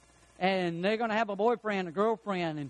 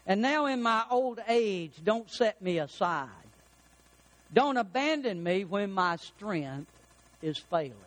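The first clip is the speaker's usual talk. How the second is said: scripture reading; slower than usual. Acted. Reads scripture verse.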